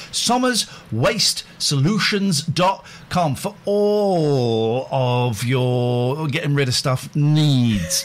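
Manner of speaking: slow radio ad voice; ad read. Acted. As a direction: sell it like a radio ad. Ad read for sponsor.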